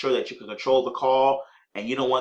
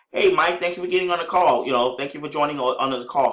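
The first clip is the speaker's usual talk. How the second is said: excited welcome. Shown as a demonstration. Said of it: "Be very excited".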